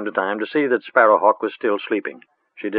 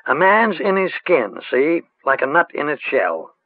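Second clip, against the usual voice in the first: put-on cautious old witch; 7 semitones higher than usual. A narrator's reading. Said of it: "lowering her voice".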